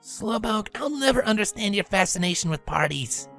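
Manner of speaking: understated, dry remark; deadpan. A narrator's reading. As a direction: drily dismiss her enthusiasm. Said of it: "Spitfire deadpanned".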